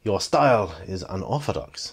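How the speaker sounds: put-on measured Mister Han accent; lightly accented film villain. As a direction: imitate Han's accented English. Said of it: "I probably shouldn't do the accent".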